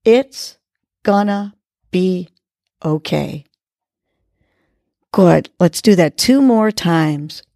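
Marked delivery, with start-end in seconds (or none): 0.1-3.5 each word tapped out separately, fading at the end; tapping each word. Shown as a demonstration. Host guiding listeners, tapping fingers per word. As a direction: space the words out like finger taps. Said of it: "tapping each finger to each word".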